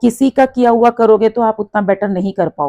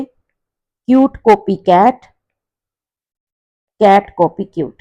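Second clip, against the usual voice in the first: slow tongue twister; 3 dB louder, slower than usual. Shown as a demonstration. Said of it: "बार बार बोल के देखेंगे".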